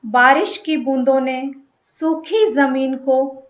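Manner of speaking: deliberate verse delivery, phrase by phrase with pauses; poem recitation. Acted. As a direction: recite the opening line, letting key words linger. Begins reciting own poem. (कविता पाठ, ठहराव के साथ)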